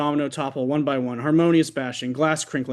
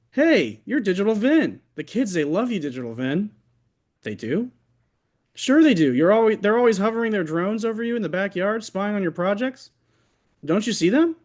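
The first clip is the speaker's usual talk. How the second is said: excited surgeon fan; 6 semitones higher than usual. Acted.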